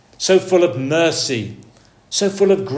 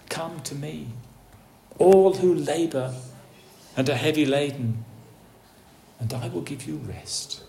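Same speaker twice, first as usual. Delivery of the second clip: soft, gentle call to come and rest; gentle invitation; 5 dB quieter than usual. Acted. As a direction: invite them tenderly, almost hushed. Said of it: "his gentle words of invitation".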